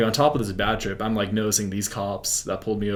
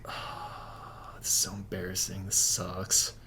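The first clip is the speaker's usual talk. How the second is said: sighing, much softer voice; retold embarrassment; 8 dB quieter, slower than usual. Sobering up in hospital, quietly mortified. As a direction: sink into a quiet, mortified sigh. Sobering up, realizing what happened.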